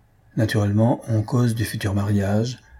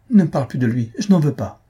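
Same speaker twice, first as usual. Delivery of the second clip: higher-pitched, emphatic rejection; upset refusal; 5 semitones higher, 4 dB louder, faster than usual. Acted. Daughter rejects her fiancé before mother, upset. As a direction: refuse with rising vehemence.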